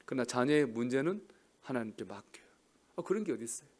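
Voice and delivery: normal talking voice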